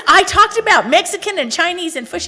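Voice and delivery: hammed-up frustration listing the hints; mock exasperated wife. Retold quarrel with husband.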